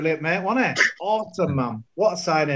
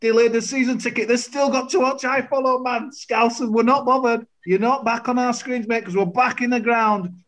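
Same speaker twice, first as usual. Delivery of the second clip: raised-voice mock rant; 4 semitones higher than usual. Real, not acted. Mock rant at rival channel.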